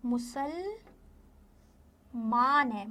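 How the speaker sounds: मुसलमान drawn out slowly, long आ in मान; slow clear pronunciation. Shown as a demonstration. Teacher stressing the long मान in मुसलमान for children. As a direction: spell out मुसलमान syllable by syllable, very slowly. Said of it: "मन नहीं है, मान है".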